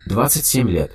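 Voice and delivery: flat, even machine voice; monotone. Acted. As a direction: answer like a computer, no tune. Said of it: "монотонно ответил голос".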